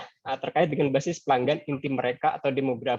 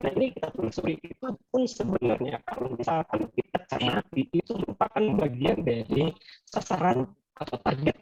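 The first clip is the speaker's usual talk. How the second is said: robot voice from a glitchy connection; cutting in and out like a broken call; choppy robotic audio. Real, not acted. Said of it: "suaranya putus-putus". (suara putus-putus seperti robot)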